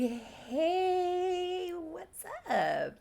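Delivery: high, bright chipper hello; chipper greeting. Retold or imitated. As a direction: play it breezy and upbeat. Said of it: "he's just like".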